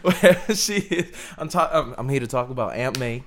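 put-on half-hearted New York accent; lightly put-on New York accent for an impression; badly faked New York star impression; crappy New York accent. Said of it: "a really crappy New York accent".

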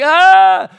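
high, loud sustained wail; mock child's scream. Daughter's ears hurt at takeoff, loud mock scream. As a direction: imitate a kid screaming. Imitates child crying on plane.

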